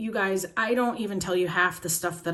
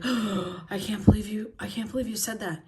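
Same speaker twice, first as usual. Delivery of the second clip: mock gasping sweet person. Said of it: "squishy and sweet all the time".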